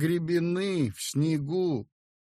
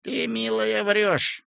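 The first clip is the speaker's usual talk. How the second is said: higher, firm stern rebuke; 8 semitones higher than usual. A narrator's reading. Feldsher rebukes the peasant woman, stern. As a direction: scold her sternly. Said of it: "и строго молвил".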